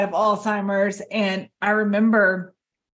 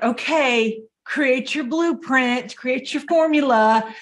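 mock coach voice; 5 semitones higher, slower than usual. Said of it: "we're told to, like".

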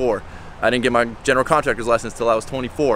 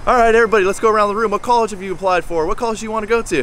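teacher calling out; 8 semitones higher, faster than usual. Retold or imitated. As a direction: boom it across the classroom like a teacher. Teacher calls out to class.

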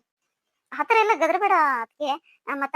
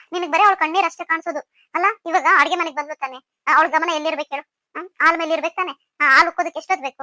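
raised, louder scolding at the daughter-in-law; 5 dB louder, faster than usual. Acted. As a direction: tell her off, getting louder, faster on the last line. Mother-in-law scolds over spilled milk.

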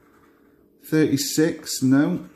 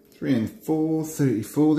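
bingo caller; 5 semitones higher than usual. Acted. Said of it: "I start doing my bingo calls".

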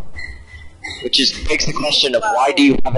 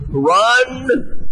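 sharp, higher cry to flee; one-word alarm, pitched up; urgent shout; 9 semitones higher than usual. Real, not acted. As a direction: bark it as the horde comes. Urging team to flee.

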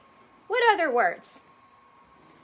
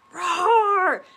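roar; 2 semitones higher, 4 dB louder than usual. Shown as a demonstration. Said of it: "How do tigers go?".

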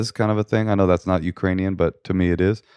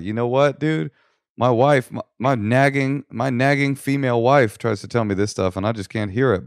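lightly voiced husband, a bit higher; imagined husband; 4 semitones higher than usual. Husband talking to Vladimir about his wife, lightly acted.

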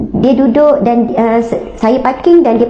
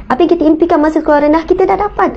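quicker, rising on dah dapat; urging the congregation, faster; faster emphatic repeat; 3 semitones higher, faster than usual. Real, not acted. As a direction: rush the repeat, then lift kita dah dapat. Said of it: "repeats the line".

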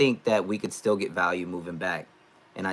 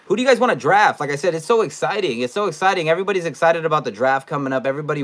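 excited hype; 7 semitones higher, 6 dB louder, faster than usual. Real, not acted. Hyping upcoming draft.

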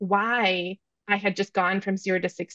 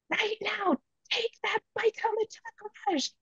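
high, softer mock yell of a fed-up mother; imitating own rage; 12 semitones higher, 7 dB quieter than usual. Mother retelling her order to her son, a high mock yell. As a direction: squeak the order up high but hold the volume down. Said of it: "I'm just like".

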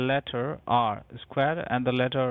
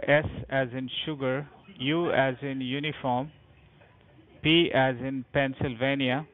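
spelling it out letter by letter; dictating. Real, not acted. Agent spelling with phonetic alphabet.

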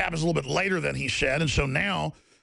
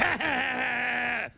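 mock laugh; 6 semitones higher than usual. Mocking the passive public.

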